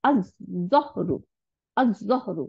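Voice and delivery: "আজ জহরু" with a long heavy Z; doubled Z. Shown as a demonstration. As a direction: hold the Z in "আজ জহরু", no L sound. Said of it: "দুইটা জ বানাই দিছে".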